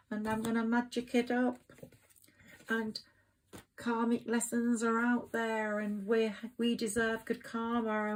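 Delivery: a hint of a yearning partner; imagined lover. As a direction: voice the lover's wish, lightly. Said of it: "they're going".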